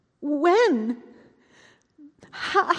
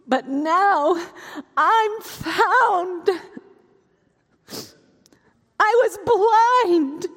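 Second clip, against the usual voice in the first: tearful; 3 dB louder, much slower than usual. Acted. Tearful joy.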